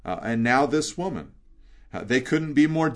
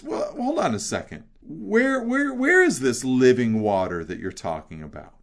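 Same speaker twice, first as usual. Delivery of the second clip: retorting Samaritan woman. Retold or imitated. Samaritan woman talking back to Jesus, mock indignant. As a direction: push back like she doubts him.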